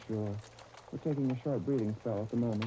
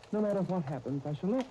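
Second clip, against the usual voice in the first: hammed-up lovesick vow, raised high and loud; mock romantic declaration; 8 semitones higher, 4 dB louder than usual. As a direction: declaim it like a stage lover. Clarence rehearsing a declaration alone.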